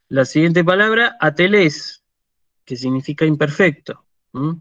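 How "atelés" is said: atelés stressed on the last syllable -LÉS; final stress. Shown as a demonstration. Teacher reads a model word, stress on eta. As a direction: put the weight on the final e of atelés. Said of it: "El acento sobre la eta".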